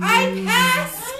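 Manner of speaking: high, loud shriek of joy; squealing I passed; excited student. Retold or imitated. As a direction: burst out with the good news. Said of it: "she calls you and goes".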